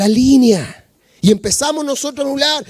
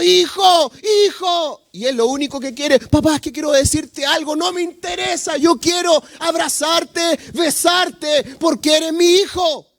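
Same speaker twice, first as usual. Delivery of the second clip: loving father; 2 semitones higher than usual. Acted. Father welcomes his lost son home, tender and pleading. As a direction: pour love over the returning son.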